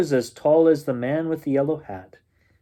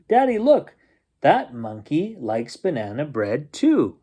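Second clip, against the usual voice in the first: put-on a small girl tugging at her dad, thrilled; excited little girl. Girl to father about monkey, excited child voice.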